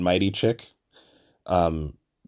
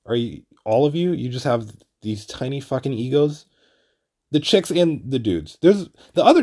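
exasperated retelling; 5 semitones higher than usual. Retold or imitated. Bystander to people getting hostile over tiny egos, exasperated. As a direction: act out being fed up with bickering people. Acted exasperation at the squabbling group.

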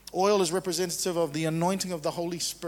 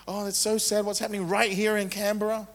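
mock pity; 4 semitones higher than usual. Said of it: "That's pity".

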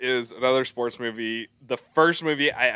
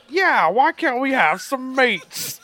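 slow, high bellowing orc voice; dopey cartoon bellow; 13 semitones higher, 7 dB louder, slower than usual. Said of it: "the orc says".

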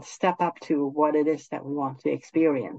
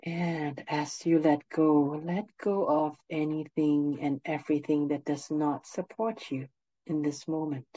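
guided meditation; 4 dB quieter than usual. Acted. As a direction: ease them gently into stillness.

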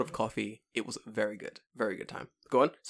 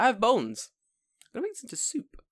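excited past self; 12 semitones higher than usual. Retold or imitated. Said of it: "And I was like".

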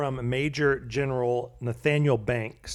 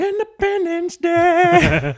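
high, slow grand announcement; grand proclamation; 9 dB louder, much slower than usual. Acted. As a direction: proclaim it like a parade. Patriotic exclamation, July fourth.

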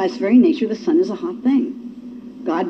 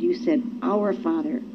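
awed hush; 2 semitones lower, 8 dB quieter, slower than usual. Real, not acted. Realising the prayer's meaning.

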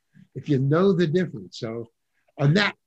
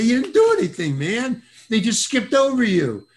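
friends telling him; 8 semitones higher, 4 dB louder than usual. Retold or imitated. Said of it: "They say".

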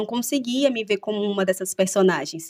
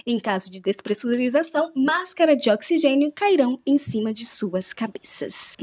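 airline cabin announcement; polite, formal in-flight announcement voice; flight attendant; 4 semitones higher than usual. Pretend. Pilot announcement in play.

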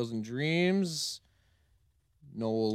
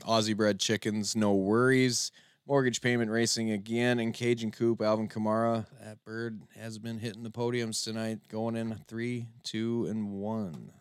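announcer calling the race like a carny. Acted. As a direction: call it out like a fairground barker. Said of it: "You sound like a carny".

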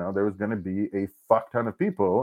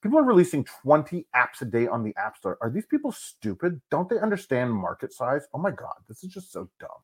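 lightly sneering imitation of the critics; mock the scoffers with a touch of scorn; doing a sneering critic, lightly, softer toward the end; mocking the naysayers; 4 dB quieter than usual. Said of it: "the public's commentary on this was like".

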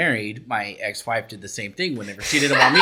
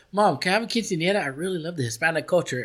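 imitating Erica; 4 semitones higher than usual. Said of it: "Erica was like".

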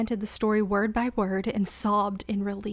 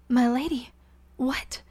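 startled; 3 semitones higher than usual. Acted. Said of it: "She started".

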